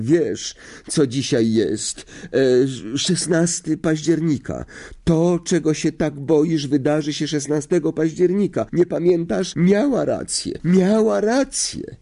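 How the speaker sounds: high-pitched, mounting wail; tearful distress. A narrator's reading. Tearful girl recalls the prophecy. (płaczliwie, coraz wyżej)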